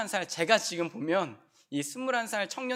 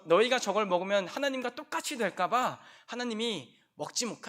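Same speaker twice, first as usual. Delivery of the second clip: ordinary delivery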